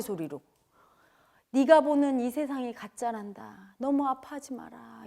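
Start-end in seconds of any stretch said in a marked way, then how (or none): 1.5-5.0 slow, tender, drawn-out consoling; gentle inner voice. Retold or imitated. Unseen presence consoling a weeping person, slow and tender. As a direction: console the child unhurriedly. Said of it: "이러는 거예요".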